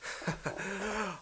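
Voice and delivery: soft, high acted chuckle; quiet mocking laugh; scornful villain chuckle. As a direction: laugh off the threat as a warlord. Daimyo scoffs at the threat.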